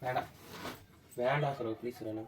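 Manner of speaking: begging through real tears; crying, pleading. Real, not acted. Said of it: "நீ ஏன் அழுகுற?". (அழுதுகொண்டே கெஞ்சுதல்)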